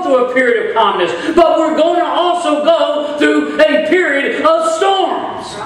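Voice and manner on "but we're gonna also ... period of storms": preaching shout. Real, not acted.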